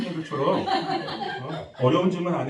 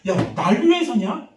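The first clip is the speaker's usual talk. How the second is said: slow, raised, louder indignant challenge; retold anger; 7 semitones higher, 6 dB louder, slower than usual. Pastor retelling his outburst at church members over prayer, angry. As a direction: act out losing your temper. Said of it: "화가 나는 거야".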